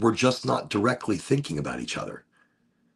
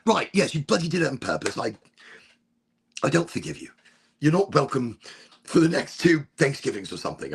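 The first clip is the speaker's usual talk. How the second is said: lightly put-on English dad, higher; dad's voice; 6 semitones higher than usual. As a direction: play his gruff English dad on the phone. Dad voiced in phone call.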